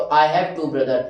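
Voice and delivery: slow and clear; slow model sentence. Shown as a demonstration. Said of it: "मेरे को बोलना है". (धीमे से दोहराओ)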